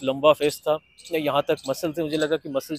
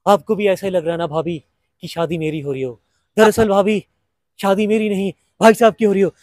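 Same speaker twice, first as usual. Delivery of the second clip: Fardeen Khan impression; 5 dB louder than usual. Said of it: "तो फरदीन खान".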